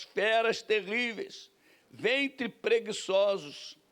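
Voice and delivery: slow, emphatic Bible reading; scripture reading. Acted. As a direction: read the verse out slowly and deliberately. Reads the Bible verse aloud.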